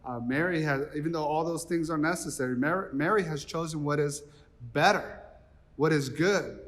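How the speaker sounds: soft, tender correction, fading at the end; Jesus gently answering the busy Martha; gentle Jesus. Retold or imitated. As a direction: kindly set her straight. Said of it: "Jesus looks at Martha and is like".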